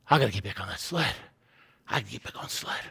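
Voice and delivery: low, hushed muttering to oneself; subdued, dreading resolve; reluctant self-talk. Acted. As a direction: make yourself say it, very softly. Reluctantly talks himself into returning.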